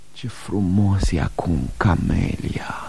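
soft, whispered awe; hushed wonder. Acted. Man to Camelia in a tender moment, whispered. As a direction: breathe it out, moved.

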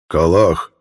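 loud, effortful bear speech; laboured bear word. A narrator's reading. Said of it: "выговорил Рох".

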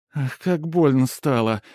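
overacted woe, drawn out; theatrical wail. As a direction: fake a howl of pain for show. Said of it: "театрально взвыла Полина".

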